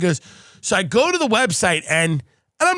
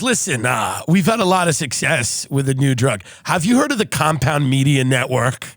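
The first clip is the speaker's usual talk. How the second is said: lower-pitched doctor making a pitch; imitating a confiding doctor; lightly voiced doctor; 6 semitones lower than usual. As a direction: drop the voice for a mock doctor's sales call. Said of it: "the doctor calls me and goes".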